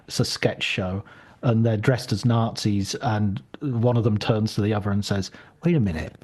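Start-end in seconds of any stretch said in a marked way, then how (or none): 5.6-6.1 dawning doubt. Retold or imitated. One sketch Nazi turns to the other, dawning doubt.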